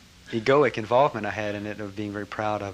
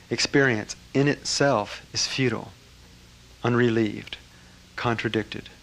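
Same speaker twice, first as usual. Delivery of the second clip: formal recitation. Retold or imitated. Reciting the teaching for the master, measured and solemn.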